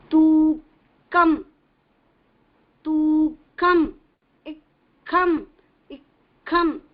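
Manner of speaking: "tu kam" split in two beats, the k from the throat; syllable by syllable. Shown as a demonstration. Teacher breaking the word into syllables for students. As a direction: sound out "ik kam" with the k caught in the throat. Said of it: "This is how it has to be pronounced".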